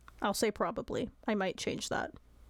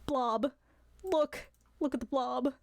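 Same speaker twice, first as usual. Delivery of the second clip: 1 excited; 3 semitones higher, slower than usual. Real, not acted. Excited about blobbing friend.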